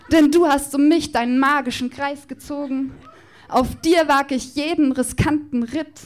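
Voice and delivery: performed slam poem, rhythmic and playful; poem recitation. Acted. Poet performing a love declaration to Justus Jonas on stage, rhythmic and playful.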